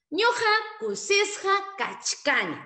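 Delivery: slow, high, loud model of Ñuqa kusisqa kachkani; teacher models for repetition; slow model sentence. Shown as a demonstration. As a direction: say it slowly and loud for the class to repeat. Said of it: "no lo olvides".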